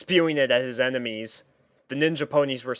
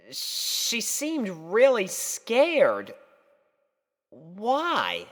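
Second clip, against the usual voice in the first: put-on higher, puzzled boyish voice; young Spike, restless; 9 semitones higher than usual. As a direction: grumble and wonder to yourself. Spike muses in bed.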